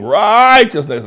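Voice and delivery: "Righteousness" high, loud and drawn out, then falling; playful emphatic righteousness. Retold or imitated. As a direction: stretch the RIGH of "Righteousness" like a sung catchphrase. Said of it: "began to illuminate it in the song".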